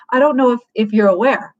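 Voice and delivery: mildly patronizing heads-up; lightly talking down to someone. Shown as a demonstration. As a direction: inform them, a touch condescendingly. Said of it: "It sounds patronizing".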